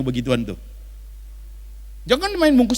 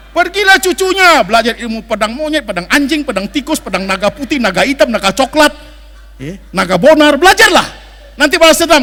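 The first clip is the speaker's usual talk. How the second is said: hammed-up movie voice; 5 semitones higher, 7 dB louder than usual. Acting out kung fu movie plot.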